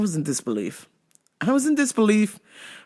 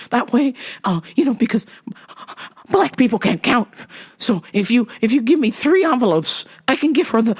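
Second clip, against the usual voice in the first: racist white lady; 4 semitones higher, 3 dB louder than usual. Retold or imitated. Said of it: "racist white lady".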